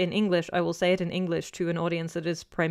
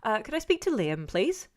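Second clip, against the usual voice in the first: lightly voiced polite caller, rising to a higher please; imitated woman caller; 4 semitones higher than usual. Woman phoning a student to ask for Liam, imitated caller. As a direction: ask politely, pitch climbing as a request. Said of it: "a woman said".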